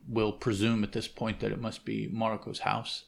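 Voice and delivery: usual speaking voice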